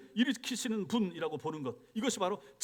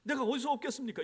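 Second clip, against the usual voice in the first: acted grievance to God, pitch climbing toward the end; resentful complaint; 3 semitones higher than usual. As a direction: imitate an overburdened leader protesting upward. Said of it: "이렇게 원망하는 거예요".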